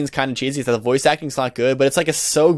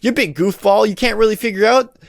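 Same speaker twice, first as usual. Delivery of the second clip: mock reading; 6 semitones higher than usual. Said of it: "such cheesy writing".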